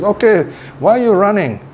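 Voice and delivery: high-pitched, lightly acted questioning; acted challenge. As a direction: question the runaways like the lion in charge. Lion challenges the fleeing animals.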